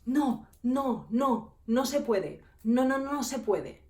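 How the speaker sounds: slow, flustered clerk saying no; mock panicky refusal; panicked refusal. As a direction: repeat no like a nervous clerk. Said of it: "se me quedó mirando y me dijo".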